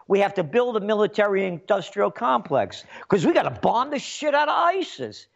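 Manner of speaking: mock Trump. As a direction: sneer out Trump's bombing boast. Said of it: "Trump says".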